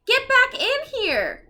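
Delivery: high, loud, slow frightened cry; cried out. Acted. Jack pulling Annie back from the window, loud panicked cry. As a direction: call her back in panic. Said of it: "cried Jack".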